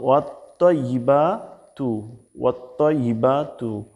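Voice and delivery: slow "ওয়াত্তাইবাতু" with rounded, heavy "tto"; heavy তোয়া. Shown as a demonstration. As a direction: draw out "ওয়াত্তাইবাতু" as wat-toyyi-baa-tu. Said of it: "Bangla উচ্চারণটা দেখুন". (ভারী তোয়া দিয়ে টেনে উচ্চারণ)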